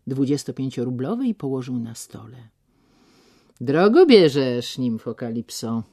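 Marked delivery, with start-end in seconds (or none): 3.6-5.8 sudden loud exclaim; sudden exclamation. Acted. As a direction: blurt it out suddenly. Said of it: "wykrzyknął nagle".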